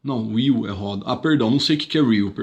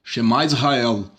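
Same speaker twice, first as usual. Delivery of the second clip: solemn quote; slower than usual. Retold or imitated. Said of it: "ele diz".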